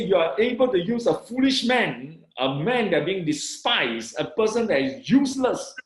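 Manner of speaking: retold marvelling at God; thrilled, emphatic testimony; excited. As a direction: exclaim it with pitch lifted at the ends. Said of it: "I was so excited".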